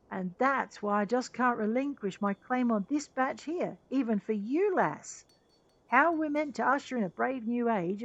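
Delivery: lightly voiced, earnest inventor; impassioned engineer. Engineer argues to keep his batch of sand, earnest and impassioned. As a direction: plead the case for your invention.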